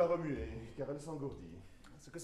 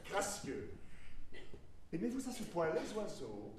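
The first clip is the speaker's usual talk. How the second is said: curious. Acted.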